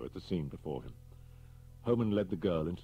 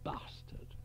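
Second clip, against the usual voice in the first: cold; 9 dB quieter than usual. Acted. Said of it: "looked back at him coldly".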